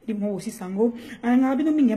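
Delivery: loud hype shout; excited shout. Acted. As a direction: shout it out to the fans. Shouting shout-outs to fans. (crié avec excitation)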